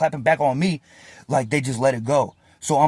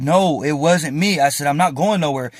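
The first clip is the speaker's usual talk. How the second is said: slightly raised retold protest; firm denial; 2 semitones higher, 4 dB louder than usual. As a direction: push back firmly on the officer's claim. Acts out denial to officer.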